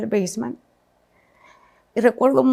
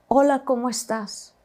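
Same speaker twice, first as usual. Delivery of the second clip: calm, unbothered greeting; slower than usual. Retold or imitated. Ex greeting the desperate mother on the phone, slow and calm. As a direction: play it cool and unbothered, slowly. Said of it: "Así, con esa tranquilidad".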